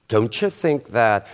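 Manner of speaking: "Don't you" fused so the T and Y blend into a ch sound, "don'tcha"; assimilated don't you. Shown as a demonstration. Teacher demonstrates the sound to students, fused into "don'tcha". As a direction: say "Don't you think that?" slowly, melting the T of "Don't" into the "you" as ch. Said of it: "la T del don't con el y del you hacen un proceso de asimilación".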